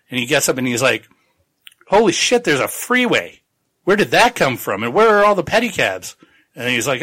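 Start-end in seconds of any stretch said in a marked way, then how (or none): 1.9-6.2 higher-pitched, bewildered mock exclaiming; mock astonishment. Tagomi finding a freeway and no pedicabs, mock astonishment. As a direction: act out baffled surprise, lightly. Retold shock at a changed world.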